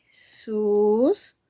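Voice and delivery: "Suscríbete" very slowly in four separate beats; syllable by syllable. Shown as a demonstration. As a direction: break "Suscríbete" into sus, crí, be, te with long pauses. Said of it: "Cuatro sílabas".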